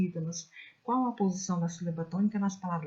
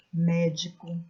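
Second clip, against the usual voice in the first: "médico" with a strong, louder first syllable; stressed antepenult; 4 dB louder, slower than usual. Shown as a demonstration. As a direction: lean firmly on the MÉ of "médico". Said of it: "a posição da sílaba tônica".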